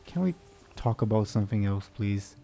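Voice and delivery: exasperated, with a hint of jealousy; exasperated sigh. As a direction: sigh and plead to change the subject. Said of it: "will sigh in exasperation and say".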